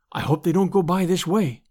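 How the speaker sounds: ordinary delivery, nothing marked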